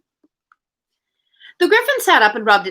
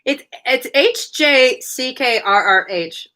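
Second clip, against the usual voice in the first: silly exclamation; 4 semitones higher, slower than usual. Acted. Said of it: "occasional exclamation of".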